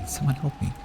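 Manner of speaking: the same plea, but with fear rising into panic; panicked plea. Acted.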